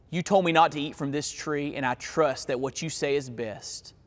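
hushed, understated prayer of trust; quiet trusting prayer. Acted. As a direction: speak it softly as a humble promise. Voices imagined prayer of trust.

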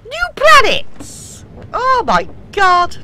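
high, slow gleeful cry; excited. Real, not acted. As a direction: savor the big moment. Arriving excitedly.

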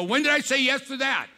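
high, fast, playful disbelief; hammed-up protest about the date; mock surprise. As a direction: pastor mimicking himself to Nancy. Pastor mimics himself, caught off guard.

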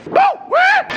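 startled squeal; surprised yelp. Real, not acted. Sudden surprise.

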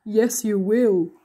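slow, menacing monster growl; growled threat. A narrator's reading. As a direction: drag it out like a monster's warning. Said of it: "and he growled".

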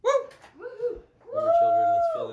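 whooping high and loud to rally the room; excited cheer. Real, not acted. Rallying the audience to sit, whooping. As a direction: cheer them into their seats.

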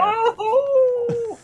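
high sudden yelp; jumped in fright; startled cry. Real, not acted. Startled by night falling.

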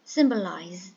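symbolize, first syllable strong, then falling away; first-syllable stress. Shown as a demonstration. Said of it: "The first one is stressed".

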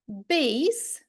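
"bass" said base, with an ay glide; exception with long A. Shown as a demonstration. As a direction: say "bass" to rhyme with face. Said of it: "ми маємо винятки".

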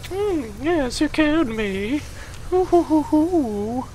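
dying commander mocked by the player, swooning and effeminate. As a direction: ham up a swooning, fluttery death. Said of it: "In a very, like, effeminate".

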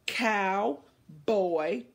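"Cowboy" held long with a rising tune; drawn out word. Shown as a demonstration. Teacher modeling for the kids, drawn out and rising. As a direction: stretch "Cowboy" into two parts, rising. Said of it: "Your turn".

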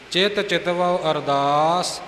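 ਚਿਤ ਚਿਤਵਉ ਅਰਦਾਸ recited with a pause after ਅਰਦਾਸ. Shown as a demonstration. Teacher repeating the line to show the pause, deliberate. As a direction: stop briefly after ਅਰਦਾਸ. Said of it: "ਵਿਸਰਾਮ ਇੱਥੇ ਹੈ".

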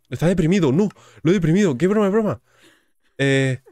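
loud, high-pitched comic alarm; mock dismay. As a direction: exclaim in exaggerated disbelief. Dismayed that villager turned depressed.

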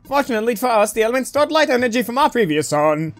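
lightly voiced solemn robot prophet. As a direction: announce the prophecy as a formal robot.

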